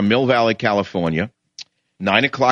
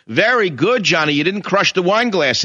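lightly gushing, higher-pitched mock praise; mock parental praise; 4 semitones higher than usual. Parent praising a child for nothing much, mildly gushing. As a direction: praise the child as if for a great feat.

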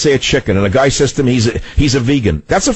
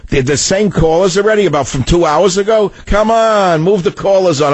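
exasperated; 7 semitones higher than usual. Real, not acted. Host complains about the same callers.

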